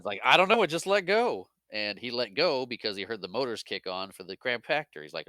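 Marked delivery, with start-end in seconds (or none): 0.2-1.5 high-pitched, bewildered outburst; baffled mock exclamation. Luke telling friends of his escape, high baffled mock cry. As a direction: blurt it out, hammed-up confusion. Acting out Luke's baffled reply.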